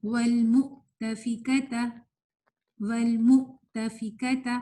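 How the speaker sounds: slow والمؤتفکۃ with a catch after mu; hamza demo. Shown as a demonstration. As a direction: cut the sound at the hamza in والمؤتفکۃ. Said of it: "اسی طرح اس کی example دیکھیں". (والمؤتفکۃ میں ہمزہ پر آواز کاٹ کر ٹھہری قرات)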